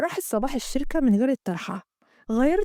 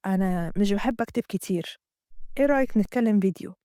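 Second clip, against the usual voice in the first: Amgad; 4 semitones lower than usual. Acted. Amgad voiced in the story.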